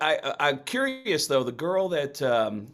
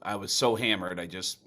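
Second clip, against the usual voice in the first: low, mumbled hungover regret; regretful drunk guy; 6 semitones lower, 5 dB quieter than usual. Retold or imitated. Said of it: "I was thinking regret was gonna be like".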